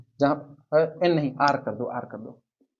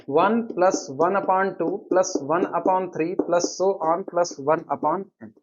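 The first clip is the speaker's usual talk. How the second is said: very slow, word-by-word dictation; 3 dB quieter, much slower than usual. Acted. Teacher dictates the inequality for students to copy, very slowly. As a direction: spell it out slowly so the class can write.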